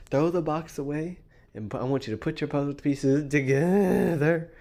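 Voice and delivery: hint of a preachy coach; mock-sermon about the game; lightly voiced Steve. Host still parodying Steve's advice. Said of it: "Steve, you wanna take this?".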